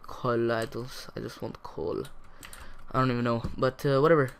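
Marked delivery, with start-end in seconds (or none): 0.0-2.0 put-on Russian pronunciation of coal; mock Russian accent. Shown as a demonstration. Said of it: "Russian accent when I'm, when I say coal".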